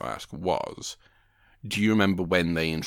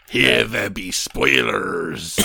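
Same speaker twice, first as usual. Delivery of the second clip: slow pirate captain voice, louder; old sea captain; 4 dB louder, much slower than usual. Acted. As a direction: growl it like a salty sea captain. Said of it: "I did like an old sea captain".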